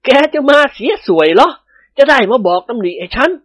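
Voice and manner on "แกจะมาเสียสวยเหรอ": chuckling. Acted. A nobleman teasing his new servant, chuckling. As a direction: laugh it out, amused. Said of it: "เจ้าคุณหัวเราะหึหึ".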